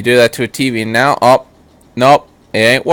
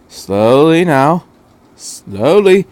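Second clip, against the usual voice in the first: slow, careful urging; coaxing doctor; 3 semitones higher, much slower than usual. Acted. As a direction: ease the giant robot down gently. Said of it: "the doctor said".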